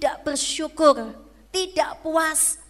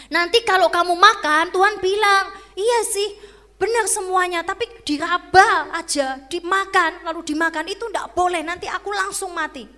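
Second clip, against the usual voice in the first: Eve's loud misquote; 3 semitones higher, 6 dB louder than usual. Acted. Eve misquoting God, acted.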